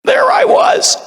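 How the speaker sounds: very high, loud squealing voice; hammed-up shrill creature narrator; goblin guinea pig. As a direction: squeal it as a mock-dramatic intro. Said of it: "Playing a goblin the hard way".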